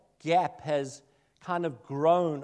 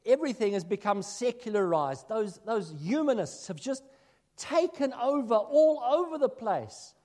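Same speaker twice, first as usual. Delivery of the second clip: a touch of a mock grumbling believer, rising higher; complaining Christian; 5 semitones higher, 3 dB louder than usual. Minister mimicking Christians who blame society, mock indignant. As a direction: parody the churchgoer's lament. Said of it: "I often hear Christians saying that".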